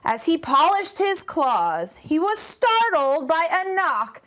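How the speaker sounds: put-on lively read-aloud for young kids; storytime narration. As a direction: tell it to a class, lively.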